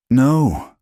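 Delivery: a high, sudden frightened no; breathed in fear. A narrator's reading. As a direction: gasp the word in dread. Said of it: "she breathed".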